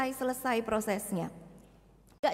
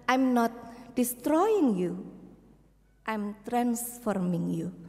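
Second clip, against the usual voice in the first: gentle reassurance; 4 semitones lower, slower than usual. Acted. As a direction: tell the wood kindly it is being made new. The craftsman speaks to the wood. (suara lembut dan pelan yang menenangkan)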